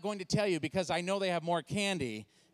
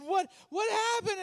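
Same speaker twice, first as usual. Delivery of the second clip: high, urgent exclamation; retold frantic shout; panicked question; 13 semitones higher, 3 dB louder than usual. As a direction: demand an answer in alarm. Retold panicked question to screaming wife.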